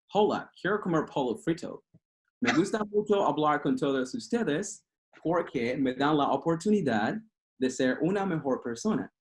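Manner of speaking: Spanish spoken with a light gringo American accent; a mild American-accented Spanish, like an English native trying. Shown as a demonstration. Practicing alone at the mirror, a light American accent in Spanish. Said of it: "talking to myself in Spanish with an accent like this".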